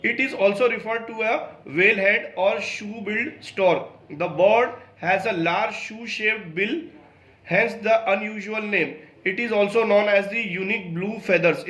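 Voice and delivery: slow, careful textbook reading; reading aloud. Acted. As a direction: read each English word out slowly for the class. Reads English textbook passage aloud. (धीमी, सावधान पाठ-वाचन)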